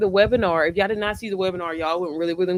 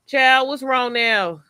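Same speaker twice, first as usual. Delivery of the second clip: exasperated mom; 5 semitones higher, 4 dB louder, much slower than usual. Real, not acted. Child interrupts the live.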